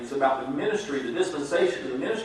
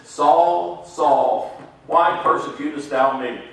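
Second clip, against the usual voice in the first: louder, commanding heavenly voice; booming voice from heaven; 6 dB louder, much slower than usual. Acted. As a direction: call down from heaven. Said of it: "and the voice says".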